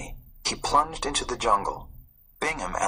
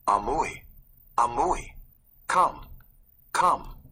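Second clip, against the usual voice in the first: put-on boy urging; 4 semitones higher, slower than usual. A narrator's reading. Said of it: "he kept saying".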